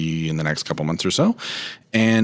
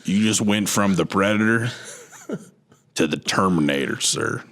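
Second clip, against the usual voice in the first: Arthur Morgan. Acted. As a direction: play an Old West outlaw. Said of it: "I'm gonna do my Arthur Morgan voice again".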